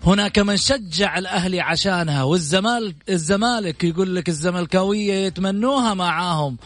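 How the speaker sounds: showy announcer build-up over music; grand TV show host introduction; TV presenter intro. Acted. Host's dramatic guest introduction over music.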